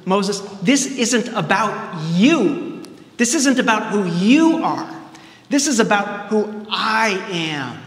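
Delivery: slow, weighty divine voice with the pitch lifted; solemn voice of God. Retold or imitated. Preacher voicing God as he corrects Moses, slow and solemn. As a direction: speak each word slowly, as God laying down the truth. God's voice in retold story.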